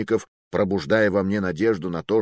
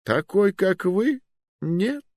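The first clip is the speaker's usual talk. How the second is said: sincere regret; 12 semitones higher, slower than usual. Acted. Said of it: "с искренним сожалением".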